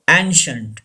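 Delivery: ancient as "AN-shunt", two syllables. Shown as a demonstration. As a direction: say ancient with a simple "sh" in the middle. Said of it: "C I gives the sound sh".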